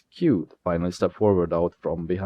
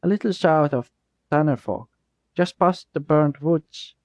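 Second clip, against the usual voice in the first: scripted reply; 7 semitones higher than usual. Acted. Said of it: "Jasper replied with a scripted response".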